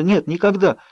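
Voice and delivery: high, tearful whimper. A narrator's reading. Bella tearfully denies it to Jacob. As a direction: hold back the tears as you deny it. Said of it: "заскулила я, сдерживая слёзы".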